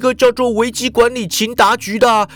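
lightly voiced panicky Japanese man; Ikeda answering on the run. A narrator's reading. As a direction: answer while still running. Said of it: "脚步不停地回说".

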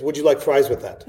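cheery drive-thru cashier upsell; chirpy fast food counter voice. Retold or imitated.

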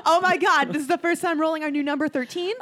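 high, loud thrilled outburst; excited. Real, not acted. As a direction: squeal it with real excitement. Thrilled at the new roll.

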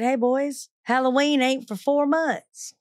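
dry, drawn-out teasing Southern drawl; unbothered joke at the Klansmen; calm joking reply. Retold or imitated. Watts mocking Klansmen in robes.

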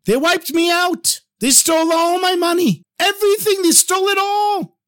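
desperate screaming. A narrator's reading. Robbed businessman bursts into the shul, wailing in despair. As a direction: cry it out like a man who lost everything. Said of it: "throwing his arms in the air and screaming".

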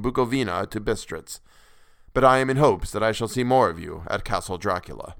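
lightly voiced courtly Count, measured and formal; a gracious host hiding menace, lightly played. Count speaks at length.

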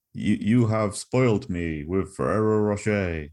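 slow, lightly posh ad voice; posh ad quote. Retold or imitated. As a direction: quote the old ad, savouring it. Quoting the classic TV ad.

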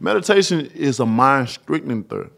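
talking around Invisalign trays; words round a mouthpiece; mouth full. Real, not acted. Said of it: "I can barely talk with this stuff in my mouth".

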